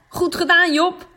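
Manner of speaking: loud, high cheer; calling out. Acted. Renske praising Job after his trick, loud call. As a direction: shout praise across the field. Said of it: "roept Renske".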